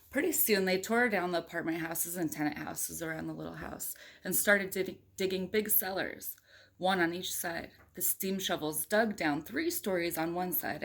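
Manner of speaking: put-on reading a picture book aloud to a child; steady storybook read-aloud; story narration. A narrator's reading. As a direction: tell it like a bedtime story. Parent reads picture book aloud.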